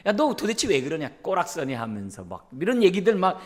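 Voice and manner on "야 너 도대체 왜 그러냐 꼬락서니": mock angry scolding. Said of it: "막 화가 나가지고".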